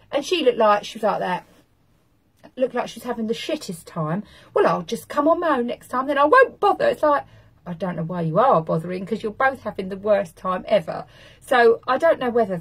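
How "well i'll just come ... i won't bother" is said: huffy squeak. Retold or imitated. Quoting the arguing woman.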